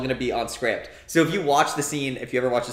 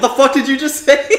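much higher, louder mock gangster outburst; imitated furious snap; 11 semitones higher, 10 dB louder than usual. De Niro rounding on the guy, mock furious yell. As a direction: whip round and blow up at him. De Niro turns around, retold.

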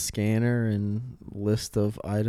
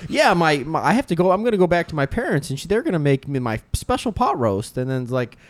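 a bit higher and brighter, gushing; mock chirpy girl; 4 semitones higher than usual. Break-room girl announces her plans to silent coworkers, chirpy. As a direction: lightly imitate an oversharer.

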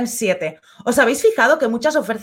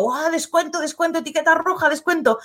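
mock dazzled shopper; 5 semitones higher than usual. Dazzled by sales labels.

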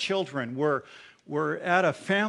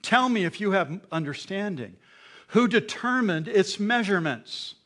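sarcastic God; 4 semitones higher, 6 dB louder than usual. Acted. God sarcastically quizzing Job, sarcastic and loud. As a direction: needle him with biting sarcasm. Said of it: "Hear the sarcasm in that".

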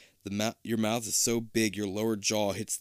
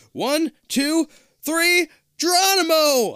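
high excited yell into the jump; shouting Geronimo; 8 dB louder, slower than usual. Acted. Kid leaping through a mirror, yelling excitedly. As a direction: leap and shout it out loud.

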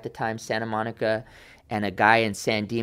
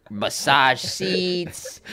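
"massage seats" drawn out slowly and pitched high; savoring emphasis; 5 semitones higher, much slower than usual. Real, not acted. Buyer listing luxury car options, "massage seats" savored slowly. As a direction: relish "massage seats", stretching both words.

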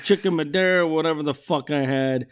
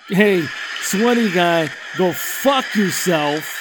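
mock telling off; slower than usual.

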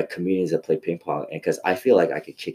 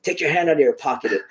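mock stern father; 8 semitones higher, 3 dB louder than usual. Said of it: "he would get mad at me".

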